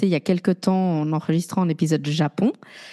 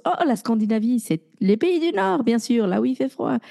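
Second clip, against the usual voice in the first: mocking naive people; 2 semitones higher than usual. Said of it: "beaucoup de gens pensent".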